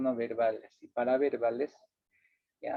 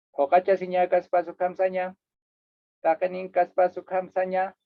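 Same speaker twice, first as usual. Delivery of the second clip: mechanical flat read; 3 semitones higher than usual. Shown as a demonstration. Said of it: "si solo hablase con palabras, diría así".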